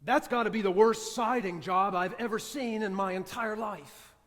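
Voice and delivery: griping critique. Retold or imitated. Friend griping about siding job.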